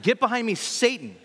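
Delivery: "Get behind me, Satan" snapped out high and loud; sharp rebuke. Retold or imitated. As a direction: bark it as a stern command. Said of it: "he rebuked Peter".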